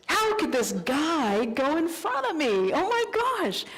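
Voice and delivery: hammed-up huffy inner voice; indignant inner rant. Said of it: "I have all these angry thoughts".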